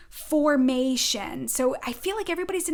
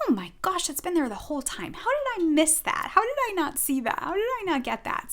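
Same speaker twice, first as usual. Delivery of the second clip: higher, amazed rush of realisation; retold aha surprise; 5 semitones higher, faster than usual. Telling viewers her own aha moment, higher amazed voice. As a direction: gasp at what was there all along. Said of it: "I'm like".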